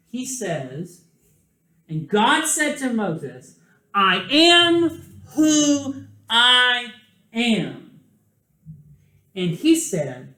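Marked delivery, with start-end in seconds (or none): 1.9-8.0 slow, grand "I am who I am", with the "I" rising high and loud; God's voice, booming then drawn out; solemn divine voice. Retold or imitated. Teacher reading God's words.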